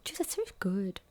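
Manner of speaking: whispered. Real, not acted. Amazed at partner's yikes.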